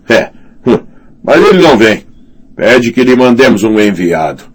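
high, self-important lord's voice; pompous commander voice. Acted. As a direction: puff up like a bullying commander. Slint gloating about Mance.

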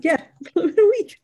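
high, fast, sarcastic mimicry; mock their excuse with a laugh; sarcastic high echo. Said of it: "I'm like".

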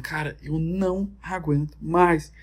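exasperated plea. Retold or imitated. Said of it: "Aí todo mundo".

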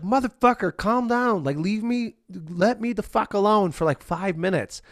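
mock angry outburst at a pet; annoyed yell at cat. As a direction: shoo the pesky cat off your feet. Yelling at cat in morning.

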